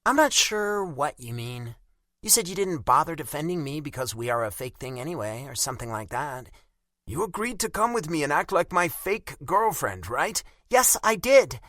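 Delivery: put-on high, sharp offended young woman; Bella angry. A narrator's reading. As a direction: bite back, insulted. Narrator voices Bella, angry.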